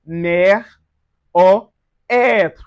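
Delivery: "mère or être" with open eh vowels. Shown as a demonstration. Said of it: "Create a more open sound".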